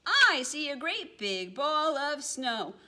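high, loud mock cry of alarm; a playful startled yell. Penguin spotting the snowball, playful yell. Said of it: "One looked up and yelled".

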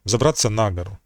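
НА stressed in «на гору»; stress on the preposition. Shown as a demonstration. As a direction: hit НА, with гору tucked unstressed behind it. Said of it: "І таких, е, прикладів може бути багато".

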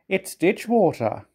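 high, slow, voiced mock whisper; loud stage whisper. A narrator's reading. Thomas to the coaches within Gordon's hearing, stage-whispering. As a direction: draw out the cheeky secret for all to hear. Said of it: "whispered Thomas loudly".

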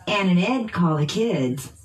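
put-on "Ann and Ed" and "kids" stressed by pitch; noun stress. Shown as a demonstration. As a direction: drill model, peaks on "Ed" and "kids". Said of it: "using pitch change".

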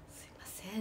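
soft unvoiced sorry; whispered apology. Asking the director meekly in a whisper. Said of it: "って".

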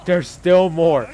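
exasperated disbelief. Real, not acted. More enemies appear.

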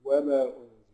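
وما with only a natural two-beat vowel; short madd. Shown as a demonstration. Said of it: "أقصره يعني أمد مد طبيعي حركتين".

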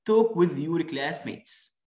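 slow, clear textbook English; drawn-out classroom line; very slow model reading. Shown as a demonstration. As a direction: read it word by word for kids. Reading textbook instruction slowly.

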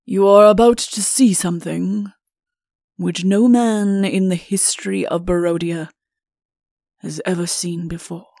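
portentous announcement, starting loud and sinking; grave royal warning; portentous king. Acted. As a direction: build suspense, then let the voice drop. King builds up a dreadful reveal.

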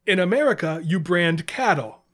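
put-on comic Russian accent with a yelled slow payoff. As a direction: Yakov Smirnoff style Russian reversal, punchlines belted out slow and loud. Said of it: "my Russian accent".

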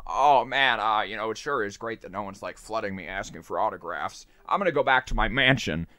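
lightly voiced old-movie actor; a hint of folksy, hesitant film star; mild impression of a rambling screen actor; Jimmy Stewart. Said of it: "it's fucking Jimmy Stewart talking".

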